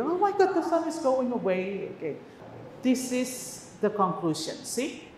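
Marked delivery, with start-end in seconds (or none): 0.0-1.9 put-on dramatic kid talk. Shown as a demonstration. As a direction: gasp it out like a wide-eyed storyteller for a child. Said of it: "udah mulai meninggi".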